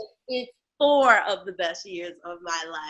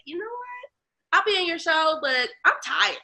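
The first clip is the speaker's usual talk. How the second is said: mock weary reply; 8 semitones higher, 3 dB louder than usual. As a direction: hold out the words like you're worn out. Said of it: "I was like".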